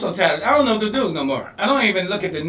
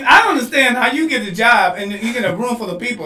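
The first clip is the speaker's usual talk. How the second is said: rising loud disbelief; worked-up rant; 5 semitones higher, 5 dB louder than usual. Real, not acted. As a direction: push it out, amazed and indignant. Ranting about suicide bombers.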